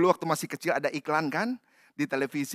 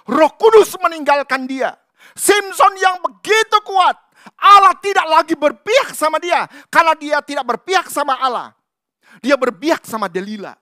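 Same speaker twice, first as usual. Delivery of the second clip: loud, driving sermon; full-force preaching; 8 semitones higher, 11 dB louder than usual. Acted. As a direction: hammer the point home. Preaching climax.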